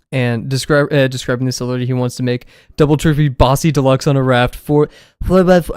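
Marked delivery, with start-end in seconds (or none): 2.8-5.8 lightly voiced loud bossy character; a hint of a brash voice, louder; reading out the character's order in his voice; imitating a character. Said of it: "I can't do his voice".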